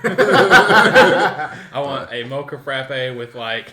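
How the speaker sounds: put-on white girl order. Mocking a white girl at Starbucks, slow drawl. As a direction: drag out the order like a valley girl. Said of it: "The like in the middle of every order".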